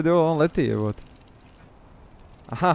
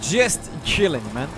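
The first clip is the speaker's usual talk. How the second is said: laid-back dude; slower than usual. Retold or imitated. Mimicking laid-back game character.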